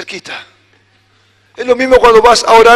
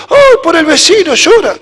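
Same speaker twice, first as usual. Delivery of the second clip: put-on higher, louder little-kid realization; child's voice; 6 semitones higher, 4 dB louder than usual. Child repeats why dad cries, higher childlike wonder. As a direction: say it like a child who just understood.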